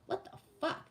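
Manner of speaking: breathy whispered disbelief, pitched high; stunned whisper. Real, not acted. Reading an upsetting comment, whispered in disbelief. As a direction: whisper it, shocked.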